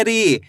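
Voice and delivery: री with a long ee; drawn-out vowel. Shown as a demonstration. Teacher demonstrating the big matra, री stretched out. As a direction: hold the ee in री. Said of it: "खींच के पढ़ा जाता है".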